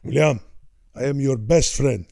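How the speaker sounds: lightly voiced Italian father, measured; a hint of Dad's accent; old man impression. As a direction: speak as a meditative Italian dad, word by word. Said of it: "this is a very good impression".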